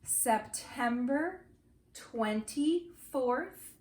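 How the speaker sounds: slow, chunked phrases with pauses for repetition; repeat-after-me. Shown as a demonstration. Teacher giving the date for the class to repeat, slow and chunked. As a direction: model the date slowly, word group by word group. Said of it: "repeat after me".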